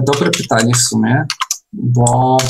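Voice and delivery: ordinary delivery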